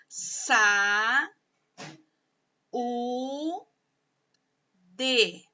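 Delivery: "sa, u, de" long drawn out, with pauses between; slowly, syllable by syllable. Shown as a demonstration. Teacher showing pupils how saúde divides, slow syllable by syllable. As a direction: sound out "saúde" as three held, separate syllables. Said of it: "pausadamente, sílaba por sílaba".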